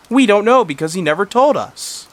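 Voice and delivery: high worried fatherly voice; worried dad. Retold or imitated. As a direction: voice a fretting father. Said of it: "The dad said".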